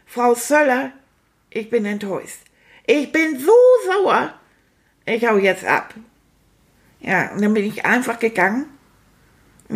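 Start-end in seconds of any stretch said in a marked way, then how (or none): 0.1-5.9 gespielt sauer. Retold or imitated. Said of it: "hab ich dann auch gesagt".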